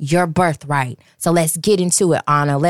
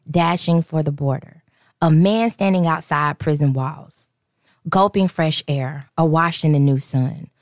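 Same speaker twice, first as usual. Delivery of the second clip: measured, lowered reading voice; devotional reading. Acted. Host reading a devotional passage, measured read.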